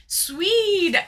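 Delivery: loud whispered call; an excited hushed shout; stage whisper. Real, not acted.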